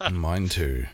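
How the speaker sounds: worn, raspy voice; smoker's rasp. Real, not acted. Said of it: "You sound like you need it more than me".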